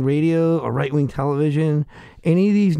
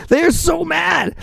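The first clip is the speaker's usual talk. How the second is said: higher, louder gleeful exclaim; gleeful shout; 9 semitones higher, 3 dB louder, slower than usual. Real, not acted. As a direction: crow it out delighted. Keeps laughing, shouts.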